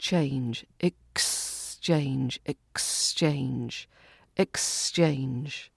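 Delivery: "exchange" repeated softly, careful on the ks; quiet drill of the x sound. Shown as a demonstration. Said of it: "the X sound in exchange".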